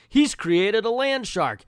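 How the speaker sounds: high, loud, slow comic-book exclamation; melodramatic alarm. Acted. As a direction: announce the monster with hammed-up alarm. Reading comic dialogue in alarm.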